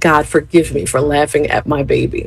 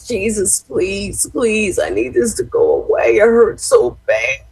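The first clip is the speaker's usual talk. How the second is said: lightly tearful begging prayer; imitated tearful pleading; 4 semitones higher than usual. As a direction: plead like a child in pain. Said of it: "I mean, he cried".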